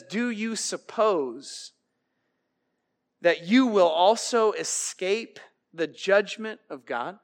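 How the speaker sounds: hushed solemn warning; grave quiet quote. Acted. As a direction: let the question sink heavily. Quoting Paul gravely.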